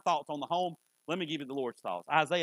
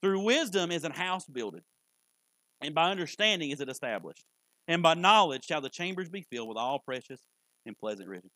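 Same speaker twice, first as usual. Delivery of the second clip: scripture reading; 2 semitones lower, 3 dB louder than usual. Acted. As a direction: read it like a verse to hang on the wall. Reads scripture.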